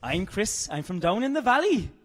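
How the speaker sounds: hammed-up, lilting attempt at Welsh; lightly put-on Welsh accent, pitch lifting. Shown as a demonstration. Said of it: "I'll do my Welsh accent".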